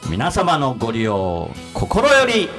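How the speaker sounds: slow, measured announcer read; radio announcer. Acted. Radio show address announcement.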